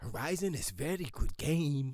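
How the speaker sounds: fake French accent. Quoting someone's verdict on a video game, imitating Herman's French accent. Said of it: "I don't know why he's French all of a sudden".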